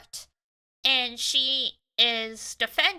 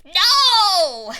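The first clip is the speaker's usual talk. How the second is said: sudden high shout of protest; loud; 7 semitones higher, 11 dB louder than usual. Real, not acted. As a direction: cry out no in mock horror. Reacting to maple leaf line.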